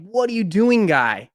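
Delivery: high-pitched retold plea, dropping at the end; retold exasperated calling. Storyteller to the dog darting away, retold exasperated calling. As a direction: replay calling after him, high then falling.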